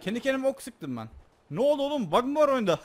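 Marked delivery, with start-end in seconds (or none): 1.5-2.8 surprised. Real, not acted. Game glitch, startled shouting.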